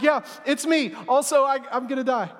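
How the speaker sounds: lightly high, offhand reveal; casual Jesus. Retold or imitated. Jesus casually telling disciples he'll die, offhand. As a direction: toss off bad news casually. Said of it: "And then Jesus is like".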